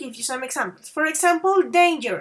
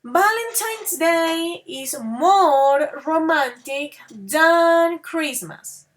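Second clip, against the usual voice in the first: slowly, drawing out more and than; slow model sentence; 3 dB louder, slower than usual. Shown as a demonstration. Teacher giving an example, slow and clear. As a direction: lay the sentence out slow for learners. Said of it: "You may say".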